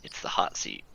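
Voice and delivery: low, soft unvoiced whisper. Real, not acted. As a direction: breathe it secretly to friends. Player whispers to party.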